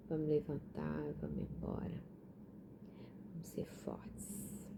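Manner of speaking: soft, half-whispered encouragement; hushed encouragement. Real, not acted. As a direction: gently urge them on, almost whispering. Soft encouraging close of talk.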